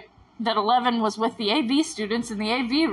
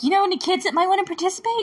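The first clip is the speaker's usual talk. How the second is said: higher, fast, sugary put-on lady voice; mock scammer lady; 9 semitones higher, faster than usual. Podcaster mocking the scam agent asking for kids, higher and fast. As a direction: parrot the scammer's sweet pitch, quickly. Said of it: "She's like".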